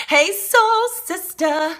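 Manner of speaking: stretched singsong greeting. Real, not acted. Greeting a friend in the chat, slow and sung. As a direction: croon the greeting out slowly.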